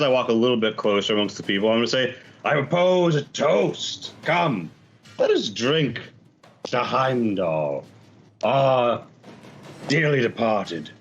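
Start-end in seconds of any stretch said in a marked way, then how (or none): 2.5-10.9 ceremonial toast with weighty pauses; lightly voiced pirate orator honoring the dead; pirate proposing a toast. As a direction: address the crew formally, phrase by phrase. Player in character proposes a toast.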